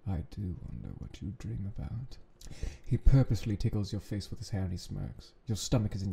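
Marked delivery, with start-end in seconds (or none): 0.1-2.2 put-on British accent. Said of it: "there's the British accent there".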